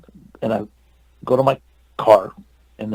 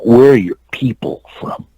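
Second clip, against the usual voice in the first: "people" leaned on in the question; imitated pointed question. Star asks the actor about his ancestry, pointedly stressing "people". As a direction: imitate him pressing the word "people". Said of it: "Like that".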